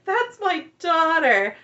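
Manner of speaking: slow, high, loud proud gush; a hint of a doting mother beaming; proud mom. Mother proud of daughter's look.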